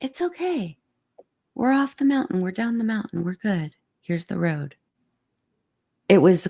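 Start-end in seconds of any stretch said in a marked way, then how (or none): 0.0-4.8 softer, easy calm reassurance; calm as day. Retold or imitated. Son calmly telling mom they are off the mountain, lightly calm. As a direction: soothe her like nothing happened. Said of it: "he calm as day".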